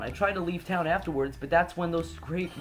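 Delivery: put-on worried girl NPC. Girl warning Nick about the strange Pokemon, worried voice. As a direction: tell him what you saw, nervously.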